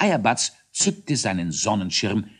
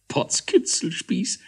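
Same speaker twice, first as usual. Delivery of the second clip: high, slow, astonished cry; amazed exclamation; 10 semitones higher, slower than usual. Acted. Hollebautz amazed at the secret plan, high astonished cry. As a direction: gasp out in wonder. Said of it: "staunte Hollebautz".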